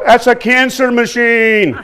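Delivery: mock heckler's yell, slow and laughing; imitating a shout from the crowd, half laughing; retold yell. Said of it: "somebody yelled".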